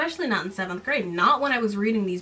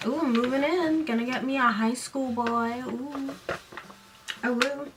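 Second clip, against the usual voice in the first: higher, soft giddy cooing; flustered swooning girl; 4 semitones higher, 3 dB quieter than usual. Retold or imitated. Girl flustered over the cute boy, high soft cooing. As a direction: coo like a lovesick teen. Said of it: "She gets all flustered and she's like".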